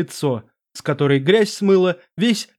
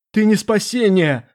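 shouting in panic, higher; defiant shout; 4 semitones higher than usual. Acted. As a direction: hurl it back at the demon. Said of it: "выкрикнул лорд".

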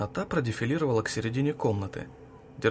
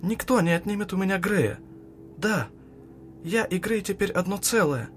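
higher, louder, furious cry; shrieking threat; 8 semitones higher, 3 dB louder than usual. A narrator's reading. Girl screaming she won't give up Grey, furious cry. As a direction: scream it as an unbreakable vow. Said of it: "заорала ... нечеловеческим голосом".

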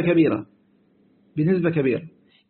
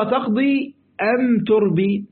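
sly lender's offer; 3 semitones higher, much slower than usual. Acted. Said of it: "يقول له".

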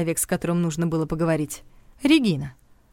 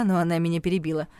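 ordinary delivery

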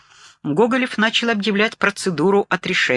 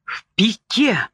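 a slow, stunned "into a dive"; frightened exclamation; alarm; 5 semitones higher, slower than usual. Acted. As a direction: dread breaking through. Michael's panicked report.

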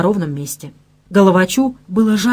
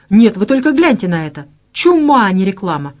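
exclaiming; 4 dB louder than usual. Acted. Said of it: "воскликнула Максимец".

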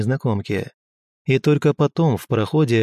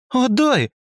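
«Отдай» much higher, shouted, falling hard; fierce indignant shout; 12 semitones higher than usual. A narrator's reading. Tora demands her hammer back, high furious «Отдай». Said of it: "свирепо и одновременно возмущённо прокричала Тора".

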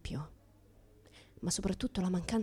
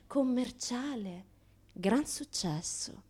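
slow, softer, dropping to a whisper; drawn-out hushed praise; 3 semitones higher, 5 dB quieter, slower than usual. Acted. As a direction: savour the words slowly. Mock praise of the trade.

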